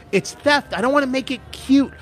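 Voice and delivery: really mean it, get fired up; indignant rant. Real, not acted. Ranting about package thieves.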